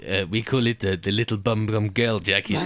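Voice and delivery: hesitant mock French accent; French instructor groping for the word; scornful fake French accent. Playing the French canoe man.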